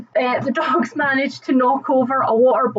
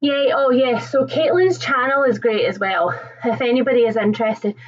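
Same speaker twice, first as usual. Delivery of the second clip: out of breath. Real, not acted. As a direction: still breathless, catching air. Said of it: "God, I'm so out of breath".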